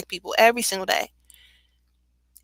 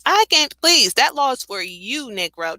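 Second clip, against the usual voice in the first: imitating angry woman; 4 semitones higher than usual. Imitating the woman yelling at him, hammed-up outrage. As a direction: lightly play the furious dog owner. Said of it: "That's what she was saying".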